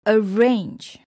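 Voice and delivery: arRANGE, loud final beat; stress on last syllable. Shown as a demonstration. Teacher showing a verb, last syllable stressed in "arrange". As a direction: punch RANGE in "arrange". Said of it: "the stress is on the last syllable".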